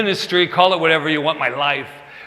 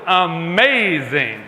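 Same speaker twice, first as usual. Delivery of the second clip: slow drawn-out; much slower than usual. Retold or imitated. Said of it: "So how you doing?".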